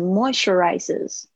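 "moisturizes" said with relaxed, smooth lips; teacher showing a relaxed delivery; relaxed mouth. Shown as a demonstration. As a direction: loosen the mouth and glide through "moisturizes". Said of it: "把你的嘴巴放松一点".

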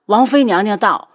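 servant calling out the arrival loudly; loud announcement. Acted. 下人通报. (高声通报)

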